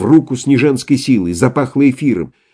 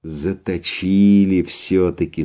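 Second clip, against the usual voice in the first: spiteful; 4 semitones lower, 4 dB quieter, slower than usual. A narrator's reading. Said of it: "улыбнулся со злобой".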